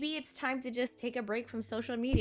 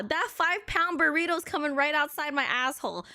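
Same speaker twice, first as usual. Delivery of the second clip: usual speaking voice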